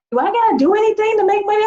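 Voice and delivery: mock clueless newbie, pitched high; high naive question. A group member asking her leader, a high naive question. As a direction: ask like you want easy money. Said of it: "the group was like".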